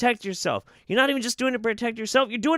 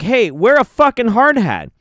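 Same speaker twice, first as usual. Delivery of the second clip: barked order; 2 semitones higher, 7 dB louder than usual. Retold or imitated. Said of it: "they're like".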